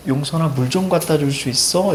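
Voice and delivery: soft, gentle little request, a touch weak; sweetly asking. Retold or imitated. Sick girl tenderly asks him for water, soft and weak. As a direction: ask tenderly for water, mildly played. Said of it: "되게 다정하게 부르는 거야".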